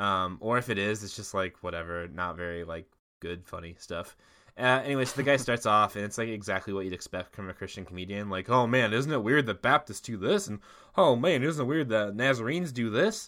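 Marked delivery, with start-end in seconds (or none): 8.5-13.3 put-on Southern Illinois accent. Recounting a Christian comedian's set, the speaker quotes his jokes: Southern Illinois accent. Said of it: "That's my Southern Illinois voice".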